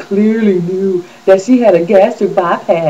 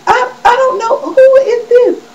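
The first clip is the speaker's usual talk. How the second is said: mock confused old fan. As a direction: ask it like a puzzled older viewer. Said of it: "They're like".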